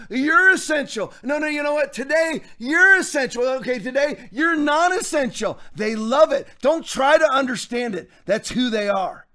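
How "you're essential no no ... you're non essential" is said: mock tyrant ruler. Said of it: "sit up on his throne and go".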